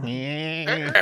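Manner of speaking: drawn-out nasal engine whine; grinding "ehhh" noise; mock grinding noise. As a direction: imitate a car failing to start. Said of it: "makes this awful grinding noise".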